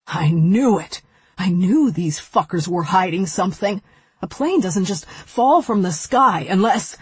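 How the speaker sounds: loud, furious, fist-pounding; angry outburst. Acted. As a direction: explode with rage. Evan pounds table in fury.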